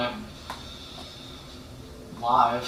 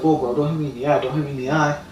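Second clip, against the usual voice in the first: whiny complaint; 3 semitones higher, 3 dB louder than usual. Retold or imitated. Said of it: "He was like".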